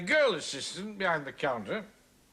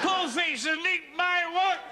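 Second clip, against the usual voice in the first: high, drawn-out taunting yell; threatened public scene, yelled high; 11 semitones higher, slower than usual. Acted. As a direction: holler it slowly for everyone to hear. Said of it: "me yelling at the top of my voice".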